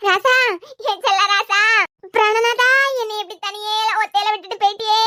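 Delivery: hammed-up oppari; keen theatrically for a lost husband; mock wailing lament. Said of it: "நாம நினைச்சு ஒப்பாரி வச்சிட்டு இருக்கேன்". (நாடகத்தனமான ஒப்பாரி)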